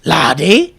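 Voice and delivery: Scrooge McDuck. Acted. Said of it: "is Scrooge McDuck Scottish".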